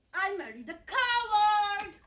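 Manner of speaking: loud, slow, hurled accusation; furious accusation. Acted. Wife to husband in a late-night fight, furious shout. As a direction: fling the word coward at him.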